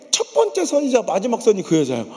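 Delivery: laughing through the line; amused confession. Real, not acted. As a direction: chuckle out 번째 선이자 마지막 선.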